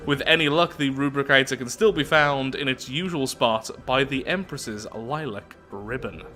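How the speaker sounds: deliberate storytelling, slowing to the last words; measured reading with stressed descriptive words; event text narration. Acted. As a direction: narrate it like a tale being read out. Reads event text aloud.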